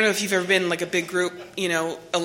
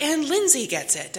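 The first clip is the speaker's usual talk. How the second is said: slow announcement; 8 semitones higher, slower than usual. Retold or imitated. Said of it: "She's like".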